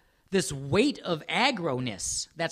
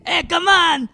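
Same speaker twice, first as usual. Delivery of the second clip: higher, louder hammed-up French bark; mock French accent; 11 semitones higher, 10 dB louder, slower than usual. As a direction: shout it like a cartoon Frenchman. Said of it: "That sounds French".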